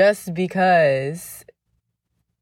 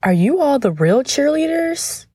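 doubtful fan asking; 9 semitones higher than usual. Retold or imitated. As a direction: mimic a fan who can't believe it. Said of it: "they would say".

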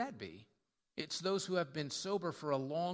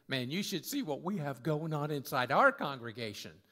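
lightly acted bragging, louder; boastful congregation; 4 dB louder than usual. Church showing off what goes on inside, boastful. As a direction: brag it out with a swinging pitch.

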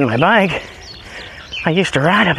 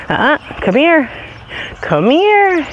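high calling to dog; 10 semitones higher, slower than usual. Real, not acted. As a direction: call her back sharply, pitched high. Calling dog away from car.

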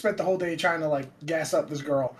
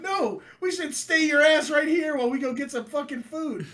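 mom correcting; 10 semitones higher than usual. Retold or imitated. Mom correcting kid, voiced high.

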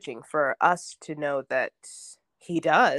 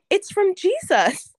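higher, slower, near tears; voice cracking with emotion; 14 semitones higher, 5 dB louder, slower than usual. Real, not acted. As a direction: hold back tears as you say it. Child's words, teller moved.

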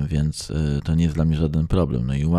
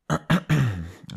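sharp clearing of the throat; 8 semitones higher than usual. Real, not acted. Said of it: "ojej, coś tam w gardle".

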